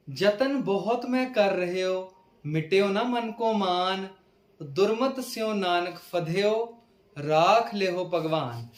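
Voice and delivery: slow, measured verse reading; scripture recitation. Acted. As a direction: recite each line slowly, stretching the words.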